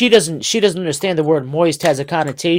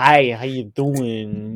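creepy back-alley guy voice, much lower; 5 semitones lower, 3 dB quieter than usual. Acting out a creepy guy in a back alley greeting someone, creepy guy voice. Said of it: "If you're a creepy guy in a back alley".

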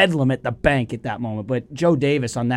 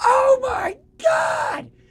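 mock shrieking scream, very high-pitched. Retelling watching the home run, imitating own past yelling. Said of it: "I am screaming. I am yelling, like".

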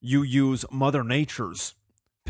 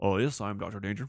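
deeper, more educated-sounding put-on voice; 4 semitones lower, 4 dB quieter than usual. Welcoming Dr. Danger, then answering as him, in Dr. Danger voice. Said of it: "just me with a different voice".

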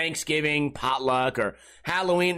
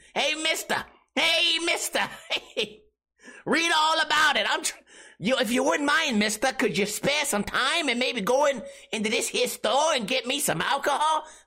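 put-on high old-fashioned street kid voice; 8 semitones higher than usual. Acting out a prank dressed as a kid from the sixties: put-on old-timey kid voice. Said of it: "Some fucking old-timey hat".

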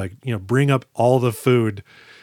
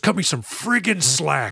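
loud put-on yell, higher pitch; 4 semitones higher than usual. Retelling a dramatic movie scene where a character yells: imitating a loud yell. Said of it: "he very loudly goes".

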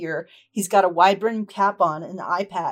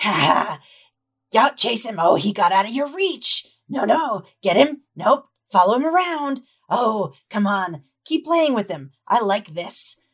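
put-on scratchy young voice. Describing a scene to listeners, voicing something heard by the river; scratchy voice. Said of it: "It sounds like a scratchy voice".

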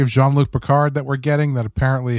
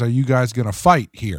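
usual speaking voice

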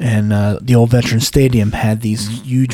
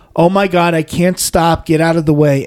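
wild, high, out-of-control screaming cry; 6 semitones higher than usual. Retelling a man rolling downhill in a wheelchair: imitating a man screaming. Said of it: "this guy screaming".

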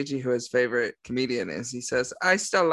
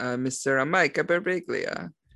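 put-on over-the-top, thick Italian accent. Naming the comedian you're going to see together, Chris Pratt's Mario impression. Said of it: "That was my impression of Chris Pratt playing Mario".

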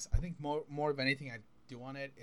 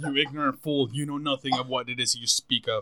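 loud, condescending, slightly evil villain voice; 7 dB louder than usual. Acting out what he says to someone who messed up, acting condescending. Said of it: "you have to be very condescending".

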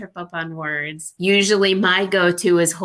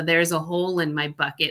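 normal talking voice

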